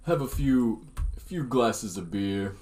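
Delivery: slow, lightly voiced punch-drunk boxer; Rocky Balboa impression. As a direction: drag the words like a dazed fighter. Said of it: "sound exactly like Rocky Balboa".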